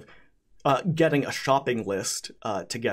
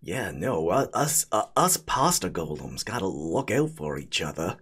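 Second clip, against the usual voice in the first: spaghetti golem voice; 5 semitones lower than usual. Acted.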